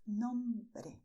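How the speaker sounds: "nombre" with a single light tap, no trill; tapped R. Shown as a demonstration. Teacher correcting the R in "nombre". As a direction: say "nombre" with no tongue vibration. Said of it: "no vibration of the tongue here".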